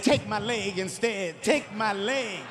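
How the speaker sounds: slow, drawn-out mock pleading; mock breakdown. Son pleading with dad over his phone, mock breakdown. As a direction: imitate a desperate child bargaining. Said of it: "He broke down".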